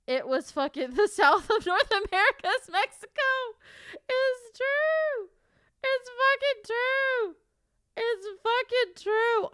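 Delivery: very high, loud, drawn-out squeal; squealed insistence. Real, not acted. Streamer insisting to listeners the story is true, high squealing. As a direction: squeal it out in disbelief, stretching the words.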